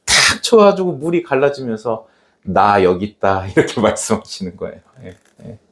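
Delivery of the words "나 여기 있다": low, steady reply; lightly voiced God, pitched down; God's calm answer. God answering as the water parts, lightly voiced calm.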